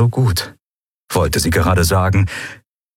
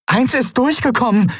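high, urgent call. Acted. Endriel alerting the crew, high and urgent. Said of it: "rief sie".

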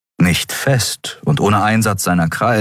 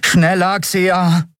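high, pressing command; urging; 12 semitones higher, much slower than usual. A narrator's reading. Miko urges the pilot to outrun pursuers, urgent. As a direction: push the pilot to hurry. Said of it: "drängte Miko".

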